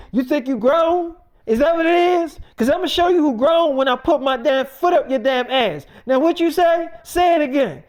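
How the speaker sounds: mildly heated mock-mother challenge; confrontational. Mother challenging her mouthy daughter, retold as a mildly heated dare. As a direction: push the questions up in pitch, daring a reply.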